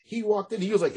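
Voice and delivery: ordinary delivery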